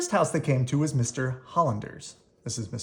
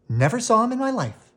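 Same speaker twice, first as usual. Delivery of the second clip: gruff brush-off; 9 semitones higher, 6 dB louder than usual. Acted. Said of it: "He started to close the door".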